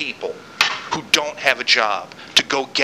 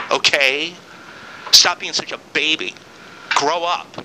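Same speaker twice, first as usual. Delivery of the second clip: getting angry. Real, not acted. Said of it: "I'm getting angry now".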